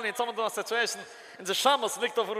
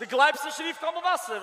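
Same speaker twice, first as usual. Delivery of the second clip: indignant retort; 5 semitones higher than usual. Real, not acted. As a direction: throw the doubt back at him.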